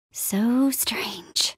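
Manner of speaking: soft, breathy near-whisper; hushed wonder. Acted. Explorer puzzling over a strange find, hushed. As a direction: murmur it to yourself. Musing to self.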